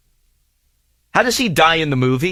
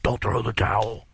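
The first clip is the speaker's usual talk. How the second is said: weak dying plea; 7 semitones lower, 5 dB quieter than usual. Retold or imitated. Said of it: "and Creed's looking like".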